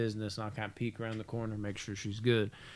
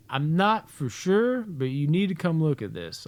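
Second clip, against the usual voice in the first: slow, higher-pitched mock-serious brother; grave brother; 5 semitones higher than usual. Brother summoning prankster to bathroom, mock-grave. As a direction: draw it out with hesitant, careful concern.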